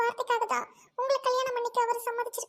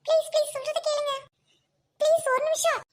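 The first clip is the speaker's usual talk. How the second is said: higher and louder, begging to be heard; urgent pleading; 5 semitones higher, 3 dB louder than usual. Acted. Doctor begs the bride for one minute, loud urgent pleading. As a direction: plead loudly to stop her walking away.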